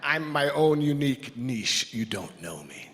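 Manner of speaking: a hint of a touchy congregant, defiant; mock defiance. Speaker voicing congregants who reject the categories, mock defiant. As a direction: play the listener who bristles at being labelled. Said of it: "everybody sitting here is going".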